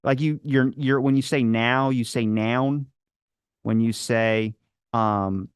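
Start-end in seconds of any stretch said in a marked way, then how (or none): 2.3-2.9 "noun" as the Baltimore way of saying "now"; Baltimore accent. Shown as a demonstration. Showing how Baltimore says now, accented demo. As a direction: give "noun" a Baltimore vowel. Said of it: "that's Baltimore, technically".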